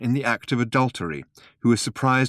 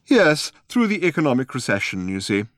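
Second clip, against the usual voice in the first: put-on old man voice; 5 semitones higher, 3 dB louder than usual.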